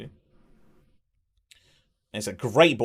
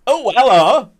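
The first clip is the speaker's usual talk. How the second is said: a much higher, louder, sing-song hello; hammed-up greeting; 10 semitones higher, 10 dB louder, slower than usual. Streamer hamming up James's greeting, high and sing-song. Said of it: "James saying".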